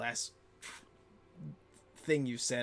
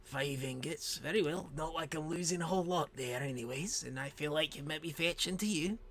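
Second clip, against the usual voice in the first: higher, lilting dwarf voice; agreeable dwarf; 3 semitones higher than usual. Acted. Female dwarf conceding five ingots, lilting voice. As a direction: concede it with a rising lilt.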